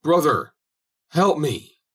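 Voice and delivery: desperate high call for help; crying out. A narrator's reading. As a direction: shout it as the water reaches your throat. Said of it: "Then he cried".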